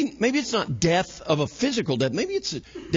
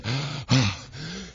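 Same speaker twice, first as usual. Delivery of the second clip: relieved sigh; 3 dB quieter than usual. Retold or imitated. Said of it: "you sit down and you go".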